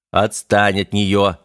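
now really make him stop; sharper order. Acted. Механик повторно одёргивает парня, жёстче.

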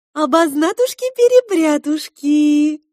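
high, loud, slow sing-song tease; playful queen mocking the mix-up; teasing queen. A narrator's reading. Queen teasing the girl about the mix-up, sing-song.

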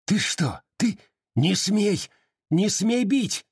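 high, furious snarl of protest; snarling defiance. Acted. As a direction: snarl as he is dragged to the wall. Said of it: "рычал Калмыков".

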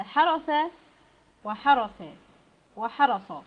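حرس said three times, first with تاء then سين then صاد, each consonant clear; three letter contrast. Shown as a demonstration. Teacher contrasting three letters for students, careful pronunciation. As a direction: spell out حرس three ways, one per letter. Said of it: "بالتاء وبالسين وبالصاد".

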